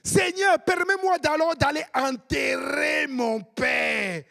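put-on loud, high, drawn-out African accent; hammed-up African accent, shouted plea. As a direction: cry it out slowly in a broad African accent. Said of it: "je prends mon accent africain".

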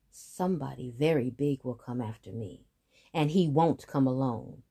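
low, menacing buffalo voice. Acted. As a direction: warn like a big beast.

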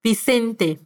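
Vicente again with a soft B; Vicente, gentle lips on the B. Shown as a demonstration. Teacher repeating the soft B model, gentle. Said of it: "para una B más suave".

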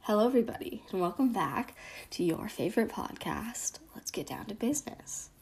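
cheery podcast hello that sinks into a whisper; intro fading to whisper. Acted. Host retaking the intro, trailing off into a whisper. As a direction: start bright, end whispering the show name.

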